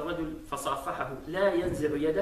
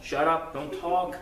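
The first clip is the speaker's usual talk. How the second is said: mock brusque telling-off of a youngster; dismissive scolding; 3 semitones higher than usual. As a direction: imitate an adult shooing a child away. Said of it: "nowadays when we see a young man".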